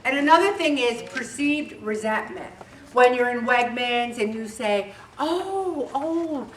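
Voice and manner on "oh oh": much higher, louder eager hello; calling out. Acted. Spotting Judy in Wegmans, an eager higher, louder hello. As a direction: wave her down across the aisle. Greeting Judy across the store.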